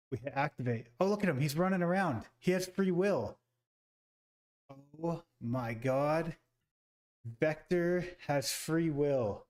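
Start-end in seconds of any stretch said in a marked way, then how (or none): 1.0-3.4 thrilled. Real, not acted. Robot comes alive, owner thrilled. 5.0-9.4 awestruck. Real, not acted. Awed at robot moving.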